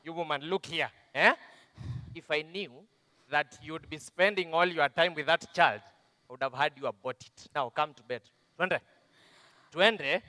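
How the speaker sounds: put-on a drunk husband barking orders at his wife; husband's shout. Wife's abuser snaps at her to come to bed. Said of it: "He just shouted at me and said".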